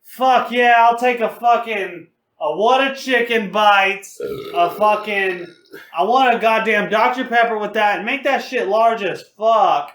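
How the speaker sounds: put-on rowdy drunk order. Leaning over the driver to yell an order at the drive-thru speaker, loud and rowdy. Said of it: "I would just be abusive".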